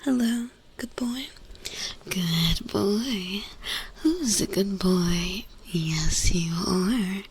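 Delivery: doting whisper to a pet. Real, not acted. Cooing to a pet.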